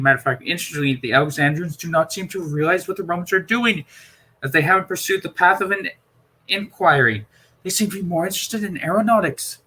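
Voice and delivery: a lightly voiced Doctor breaking bad news. Doctor warning Perry about the Romans, grave.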